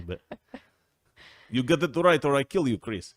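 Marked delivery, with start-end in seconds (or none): 1.5-3.1 a hint of a menacing Russian-ish voice, lightly put on; mock aggressive threat. Host mimics cohost's aggressive threat, half joking. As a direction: playfully threaten Chris like she would. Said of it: "Look how aggressive".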